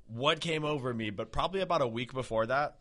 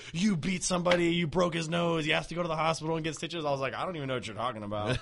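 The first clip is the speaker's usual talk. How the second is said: higher-pitched mock cop accusation; imitated accusing police; 4 semitones higher than usual. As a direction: imitate officers pressing charges over the phone. Police accusing him over phone.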